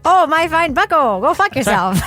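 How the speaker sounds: put-on old-timey movie voice. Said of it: "Old-timey insults".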